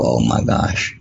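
low, stunned realization; dawning alarm. Retold or imitated. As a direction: let it drop as fear sets in. Realizing his wife is unwell.

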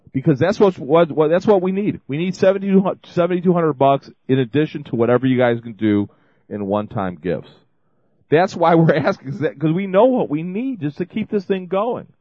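fired up, pleading for the money; excited appeal. Real, not acted. Host urging listeners to give, excited and loud.

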